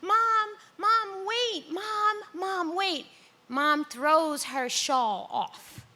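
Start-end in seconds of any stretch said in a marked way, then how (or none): 0.0-3.1 put-on much higher childish begging; seven-year-old pleading. Daughter reverted to age seven, pleading with her mother. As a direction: cry out like a little kid. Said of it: "I'm like, I turn seven".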